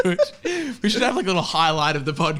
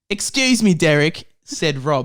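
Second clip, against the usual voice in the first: lightly put-on British accent; 4 dB louder than usual. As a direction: read it with a touch of British. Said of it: "I'm about to do an accent".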